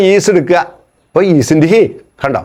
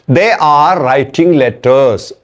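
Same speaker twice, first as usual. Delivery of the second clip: slow dictation; much slower than usual. Shown as a demonstration. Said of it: "രണ്ടാമത്".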